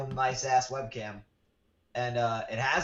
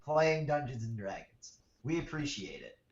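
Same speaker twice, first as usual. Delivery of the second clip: distant, like on speakerphone; mic far from the mouth; from across the room. Real, not acted. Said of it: "sound like you're, like, across the room".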